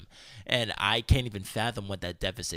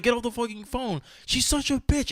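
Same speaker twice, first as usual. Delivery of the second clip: mock angry order; 13 semitones higher than usual. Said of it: "I was so angry".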